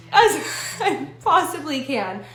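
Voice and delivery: slow, laughing at her own fear; laughing through words. Real, not acted. Nervous laugh while telling her friends about dodging the scary sight. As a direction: chuckle the words out slowly.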